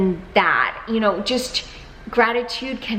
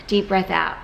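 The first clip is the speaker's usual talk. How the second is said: calm breathing guide. Shown as a demonstration. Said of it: "take a deep breath in".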